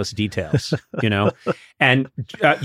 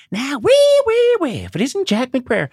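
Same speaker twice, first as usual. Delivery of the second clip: high, hammed-up city slicker sneer; over-the-top city slicker; 12 semitones higher than usual. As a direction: ham up a snooty city slicker greeting. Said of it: "in this over-the-top voice like".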